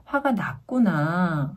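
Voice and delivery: slow, drawn-out empathy; slow, understanding parent acknowledging a feeling; empathetic tone. Shown as a demonstration. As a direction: let the last syllable stretch out in understanding. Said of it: "공감해주는 톤이죠".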